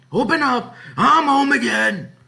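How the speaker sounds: loud, high calling shout; booming homecoming shout. Acted. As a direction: call out to the house from outside. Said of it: "he shouted".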